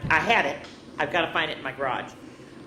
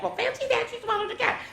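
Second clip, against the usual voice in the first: fancy that. Acted. Reader voicing the refrain for the children, high squeak.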